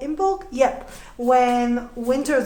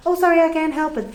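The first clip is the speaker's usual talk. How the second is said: apologetic shrug; 4 semitones higher, 3 dB louder, faster than usual. Retold or imitated. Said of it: "this sounds very apologetic".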